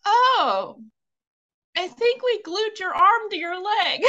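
can barely get the line out for laughing; dentist's punchline half laughed; quoting through laughter. Retold or imitated. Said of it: "and he looks and he goes".

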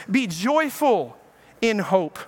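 very slow, each word weighed; slow emphatic reading. Shown as a demonstration. Preacher reads Romans to the congregation, very slow and weighty. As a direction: draw out joyful, letting it land. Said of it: "He says".

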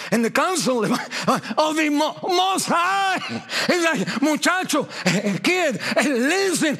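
booming preacher voice of God scolding; God scolding a stubborn child, voiced from the pulpit; God rebuking. Preacher voicing God's rebuke.

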